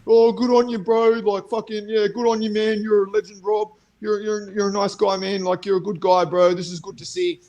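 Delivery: a high, mock-gushing fan voice; lightly voiced fawning bro. Mocking fighters cheering him on in comments, gushing. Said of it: "all these fighters in the comments being like".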